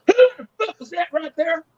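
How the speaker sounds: high-pitched redneck heckler; imitated redneck. Redneck spots him in the casino, high mock voice. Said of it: "I tell you the way he said it".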